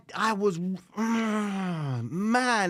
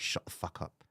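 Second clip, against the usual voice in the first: softer, whispered, lower; hissed whisper; 12 semitones lower, 11 dB quieter than usual. Retold or imitated. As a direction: hiss it so nobody else hears. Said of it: "she went".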